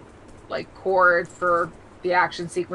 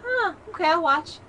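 surprised interest; 8 semitones higher than usual. Retold or imitated.

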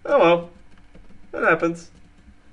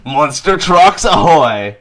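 monster truck ad; 7 dB louder, slower than usual. Pretend. Hypes a monster truck promo.

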